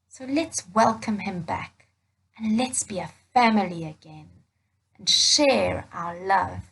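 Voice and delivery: gentle, unhurried fatherly comfort; reassuring father. Acted. Father reassuring his older son, gentle and calm.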